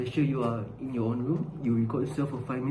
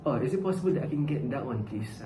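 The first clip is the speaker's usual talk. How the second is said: carefully worded polite English request; proper full-sentence English. Shown as a demonstration. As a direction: speak it like a polite textbook dialogue. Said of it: "full sentences".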